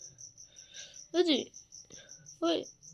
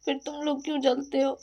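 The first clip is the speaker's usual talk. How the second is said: raised voice, scolding the jealous ones; heated rant. Real, not acted. Scolding jealous neighbours, heated and raised. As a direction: tell them off, voice up and pressing. Ranting at people who envy her.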